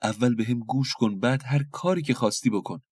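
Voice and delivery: a mild hint of begging; pleading. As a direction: plead desperately at his feet. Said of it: "با عجز و لابه گفت".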